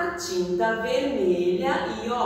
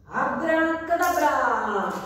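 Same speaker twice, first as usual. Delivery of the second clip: put-on kids party magician; 4 semitones higher than usual. Magic trick for children.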